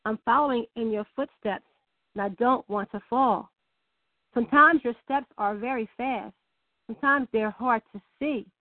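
a measured, gentle poem read aloud. Acted. Host reads a child's poem to the fathers, gently recited.

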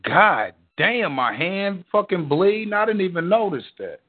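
suddenly noticing the blood; shocked. Real, not acted. Notices bleeding hand.

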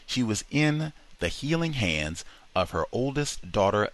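usual speaking voice

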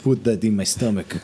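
put-on light Russian-accented cat; a mild Russian accent, disdainful. Russian blue refusing to eat Zoogs, light Russian accent. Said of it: "the Russian blue's like".

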